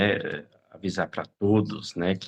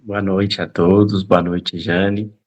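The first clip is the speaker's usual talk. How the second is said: numb from the dentist; 2 semitones lower, 6 dB louder than usual. Real, not acted. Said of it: "tô com um pouco anestesiado ainda".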